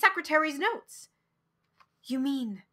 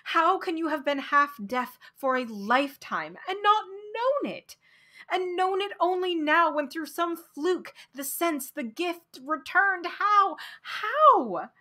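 higher, pleading questions building; crying out; 5 semitones higher than usual. Acted. Man alone by the waves crying out his questions, higher. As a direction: keep crying out, rising on each how. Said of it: "I cried".

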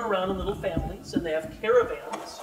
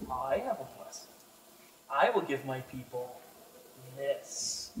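soft, low and ominous, drawing it out; a god promising a terrible gift, quietly; ominous goblin god; 6 semitones lower, 8 dB quieter than usual. Acted. Goblin god offers his people a gift, softly ominous.

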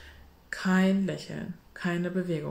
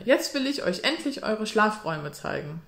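a bit louder and higher, for show; loud, bright voice; 5 semitones higher, 4 dB louder than usual. Acted. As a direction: keep up the loud cheerful act. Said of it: "mit lauter, heller Stimme".

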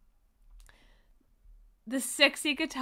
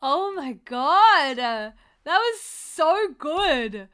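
awed; 3 semitones higher, 6 dB louder, much slower than usual. Real, not acted. Reacting to the solo.

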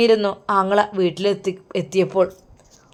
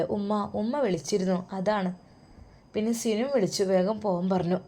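1 held-back hurt; 6 dB quieter than usual. Acted. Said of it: "അവൾ അവളുടെ വേദന ഉള്ളിലൊതുക്കി".

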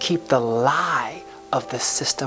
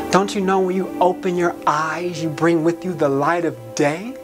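higher-pitched, impassioned spoken-word climax; rousing exhortation; 4 semitones higher than usual. Acted. Charging listeners to tear down the walls, rousing and high-pitched. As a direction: build it like a preacher's charge, pitch climbing.

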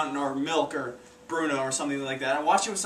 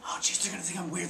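panicked worry; 5 semitones higher than usual. Retold or imitated. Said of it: "Mid thought".

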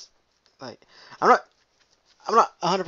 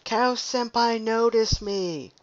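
high, slow mock-cute moo; friend's silly moo; 7 semitones higher, much slower than usual. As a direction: ham up the friend's cow greeting. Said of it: "she'd come on and go".

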